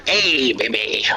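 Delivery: breathy whispered come-on; flirty whisper. Acted. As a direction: whisper it like a smooth pickup line. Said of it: "Just looks up at Varen".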